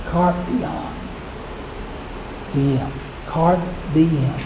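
soft haunting whisper, fading; eerie whisper. Retold or imitated. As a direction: breathe it like a ghost. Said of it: "in a very eerie type voice".

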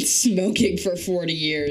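raspy smoker voice; gravelly dragon rasp. Real, not acted. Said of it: "That dry, gravelly dragon voice".

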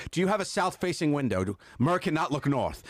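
high, fretting assistant voice; panicked assistant. Retold or imitated. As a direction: fuss like a nervous assistant. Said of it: "I would talk in that voice".

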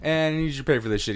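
high laughing bartender cutting him off; laughing mock cut-off. Bartender laughing while cutting off a drunk. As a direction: squeal it out through a laugh. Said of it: "so I kinda was like".

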